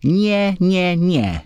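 high-pitched, insistent string of refusals; repeated refusal. A narrator's reading. Girl refusing the boy who grips her hand, high protest. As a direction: voice leaps far up on each protest. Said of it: "zaczęła powtarzać".

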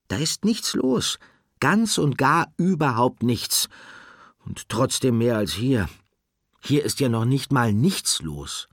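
a tiny animal complaining nothing ever happens; high squeaky voice, fed up; small squeaky Nickel. Acted. Nickel's voice in story.

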